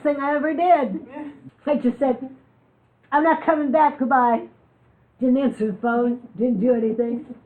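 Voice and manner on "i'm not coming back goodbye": louder, higher retold declaration; emphatic quitting. She tells the audience how she quit, emphatic. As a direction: re-enact a firm goodbye, pitched up and loud.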